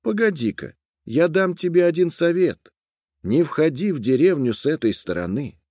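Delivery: lightly voiced young woman giving advice; chief's sister. A narrator's reading. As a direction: stop her gently with advice. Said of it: "Она сказала".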